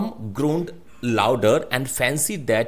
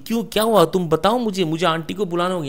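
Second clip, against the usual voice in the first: higher, hurried questioning; mildly panicked, pitched up; acted alarm; 4 semitones higher, much faster than usual. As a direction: press anxiously for an answer.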